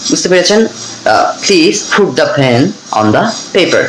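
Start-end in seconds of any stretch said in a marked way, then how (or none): 1.4-3.8 slow, puffed p in "Please", "put", "pen"; aspirated P drill. Shown as a demonstration. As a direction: model "pen" and "paper" with aspirated p. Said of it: "এভাবে কিন্তু আমরা পড়বো". ("put", "pen"-এ ফ দিয়ে ধীরে উচ্চারণ)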